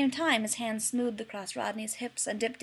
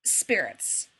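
flat; 4 semitones lower than usual. A narrator's reading. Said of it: "John said flatly".

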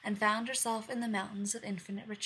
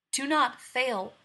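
slow stern warning; 4 semitones higher, 8 dB louder, slower than usual. Acted. Winter bride warns the queen.

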